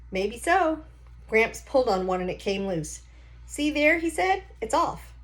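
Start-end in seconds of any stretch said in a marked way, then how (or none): 0.1-0.8 put-on old Gramps voice. Grandpa poking at a stranger's engine, confident folksy voice. 3.5-5.1 put-on old Gramps voice. Grandpa poking at a stranger's engine, confident folksy voice.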